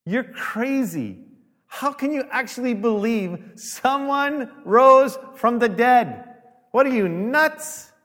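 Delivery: high, loud scoffing in a put-on voice; sneering doubter, slow and loud; mocking skeptic. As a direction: scoff like the believer's a fool.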